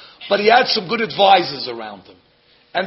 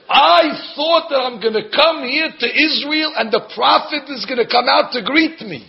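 higher, offended complaint; indignant tirade; 5 semitones higher than usual. Retold or imitated. Preacher voicing Naaman's hurt pride, offended tirade. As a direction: sound wounded in your pride. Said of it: "in his tirade".

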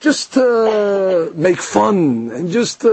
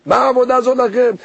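scoffing tone; 5 semitones higher than usual. Retold or imitated. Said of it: "you see already his attitude".

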